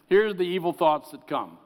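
declaimed list, each word set apart; firm scripture reading; reading scripture aloud. Acted. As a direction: read the sins out like a verdict.

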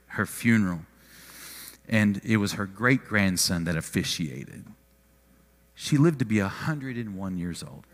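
low, soft, halting remembrance; getting emotional. Real, not acted. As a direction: speak quietly through real emotion, pausing often. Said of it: "I'm just getting emotional thinking about it".

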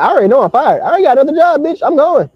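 high-pitched mock outburst at the boss; defiant quitting rant. Acted telling-off while quitting the job.

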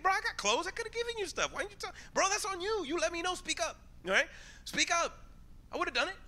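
lightly voiced exasperated friend; mock indignant protest. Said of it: "I'm like".

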